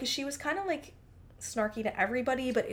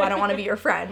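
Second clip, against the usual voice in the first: raised, blunt and cold; loud blunt rejection; 7 dB louder, faster than usual. Pretend. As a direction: say it loud like a brush-off. Mock harsh break-up line.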